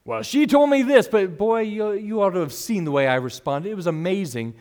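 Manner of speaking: lightly acted boastful storyteller, high at first; mild mock bragging; self-styled hero. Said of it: "making ourselves either the hero".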